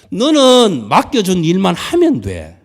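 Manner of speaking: loud, slow, firm command; stern command. Acted. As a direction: lay down the order with weight. Voicing God's command.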